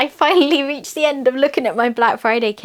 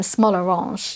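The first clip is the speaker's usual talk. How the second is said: put-on playful French-accented pet name; lightly put-on French accent; 2 semitones lower, slower than usual. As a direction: say orange the French way. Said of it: "I don't know why the French accent".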